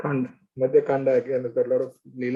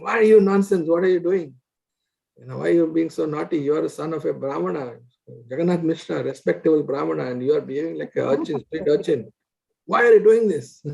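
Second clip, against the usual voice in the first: chastising scold. Retold or imitated. Murari scolds young Nimai for behaving like an urchin, angrily. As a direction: scold him like an angry elder. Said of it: "He started chastising him".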